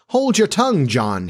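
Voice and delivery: high sharp rebuke. A narrator's reading. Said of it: "his father rapped out".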